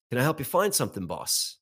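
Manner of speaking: badly faked Australian; clumsy imitation of an Australian shop worker; terrible Australian accent. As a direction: attempt a poor Australian accent. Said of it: "That's a terrible Australian accent".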